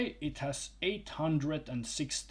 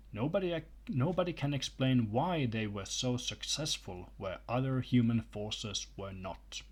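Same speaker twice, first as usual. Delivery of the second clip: reading aloud. Acted. Reads a book passage aloud.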